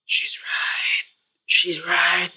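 hushed whisper to himself; quiet stunned whisper; whispered realization. Retold or imitated. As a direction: whisper it as it dawns. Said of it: "slowly thinking".

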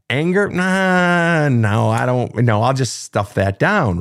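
high, slow brush-off of anger; mock dismissive. Imitating someone stuffing anger down, mock dismissive. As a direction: wave it away like it's nothing. Mocking avoidant self.

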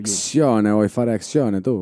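lightly hammed-up Italian accent. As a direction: play the Italian questioner. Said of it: "parlez avec l'accent italien".

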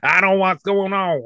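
high, lightly put-on Southern redneck accent; a quick Southern redneck accent impression; mock Southern redneck. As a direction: parody a Southern redneck kid. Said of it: "talk like, uh, redneck from the South".

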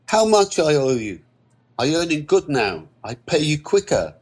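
high-pitched foreign worker, anxious and pressing; anxious Andre. Acted. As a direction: plead in a high, accented voice. Voices Andre pleading over debt.

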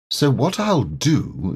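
lightly voiced Pooh bear, slow and cheerful. Pooh planning his visit, lightly voiced bear. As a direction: amble through it like a content little bear.

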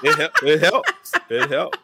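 words breaking up into real laughter; laughing admission. Real, not acted. Guest admits affirmations help him, laughing. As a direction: admit it while cracking up, pitch climbing high.

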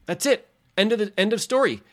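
firm, final refusal with weight on don't; firm statement. Shown as a demonstration. Refusing alcohol someone offers, firm and final. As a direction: say it like the matter is closed. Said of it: "I say".

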